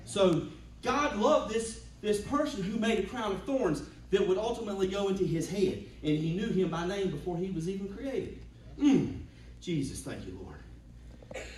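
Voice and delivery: rising, swelling sermon voice; preaching. Acted. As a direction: preach it with building fervour.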